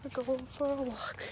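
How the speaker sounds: whispered aside; breathy whispered we're going for a walk. Real, not acted.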